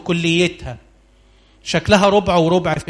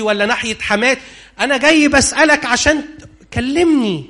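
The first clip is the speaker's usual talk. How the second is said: pleading sinner; 4 semitones higher than usual. Acted. Sinner begging God for help.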